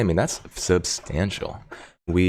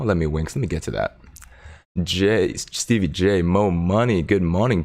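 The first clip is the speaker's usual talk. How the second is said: normal talking voice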